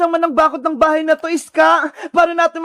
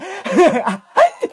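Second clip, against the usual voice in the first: gloating evil laugh; villain laugh. Acted. Sadako gloating over captive Princess, evil laugh.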